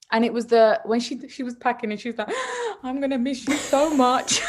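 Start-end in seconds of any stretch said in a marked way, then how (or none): 2.6-4.4 higher, imitated child's woeful goodbye; mock tearful farewell. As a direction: play a dramatic little girl saying farewell. Daughter packing, dramatic farewell retold.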